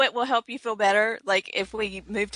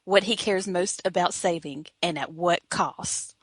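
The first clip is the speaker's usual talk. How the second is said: horror trailer voice. Acted. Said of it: "It's a trailer for a play".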